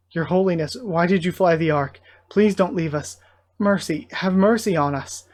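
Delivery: mildly urgent plea; pleading. Acted. Cultists begging their holy leader not to leave, mildly pleading. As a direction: beg for mercy, voice lightly lifted.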